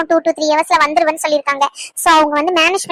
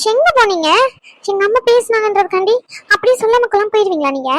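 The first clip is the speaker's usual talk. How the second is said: higher-pitched hurt complaint; plaintive scolding on the phone; reproachful; 5 semitones higher than usual. Acted. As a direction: take the partner to task for leaving. Phone caller reproaches partner for leaving.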